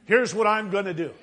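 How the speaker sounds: preacher booming God's vow; emphatic declaration. Acted. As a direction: proclaim it as God's unbreakable promise. God's covenant speech, third repeat, loudest.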